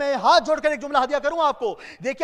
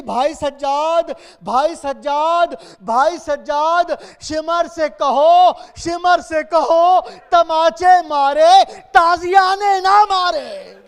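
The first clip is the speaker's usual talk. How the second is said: put-on slow, pleading child's cry building louder; crying plea; 3 semitones higher, 6 dB louder, slower than usual. Sakina begging her brother through tears, slow rising wail. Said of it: "रोकर कहती थी".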